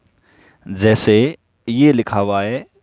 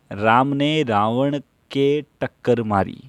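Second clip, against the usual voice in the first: dictation reading; 2 semitones higher than usual. Shown as a demonstration. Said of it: "वो बोलेगा".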